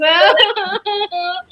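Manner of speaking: mock boo-hoo wail; pretend crying. Shown as a demonstration. Teacher shows Shaurya how to cry, pretend crying. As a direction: fake a sobbing cry to be copied. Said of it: "So cry like this".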